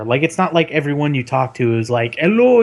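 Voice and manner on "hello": high-pitched exaggerated Indian accent; imitated heavy Indian accent. Imitating a support agent answering, heavy Indian accent. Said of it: "their accents aren't as heavy as they were".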